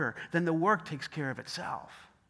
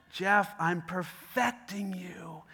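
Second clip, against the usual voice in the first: calm patient God; much slower than usual. Acted. God's calm reply.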